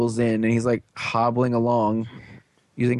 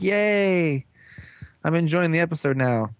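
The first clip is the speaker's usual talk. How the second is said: higher-pitched mock-delighted viewer; put-on excitement, pitched up; mock cheer; 5 semitones higher than usual. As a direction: cheer it like a pretend excited fan.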